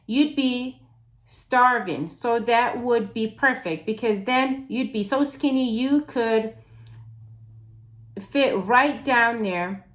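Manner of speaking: mock his plan mercilessly; sarcastic taunting. She mocks his plan.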